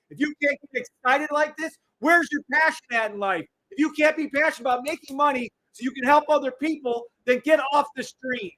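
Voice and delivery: high-pitched heated scolding; fired-up tirade; angry, passionate rant. Real, not acted. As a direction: challenge them hard, all worked up. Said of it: "he sounds so angry".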